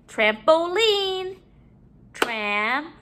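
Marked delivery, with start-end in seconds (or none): 2.1-2.9 syllable by syllable. Shown as a demonstration. Teacher counting syllables in the word, broken up. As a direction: break "Trampoline" apart with long pauses. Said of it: "break up our syllables".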